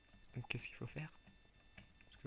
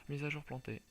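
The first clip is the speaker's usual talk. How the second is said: loud, flat system notice; loud announcement; 3 semitones higher, 5 dB louder than usual. Retold or imitated. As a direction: blurt it like an error message. Game announces crash.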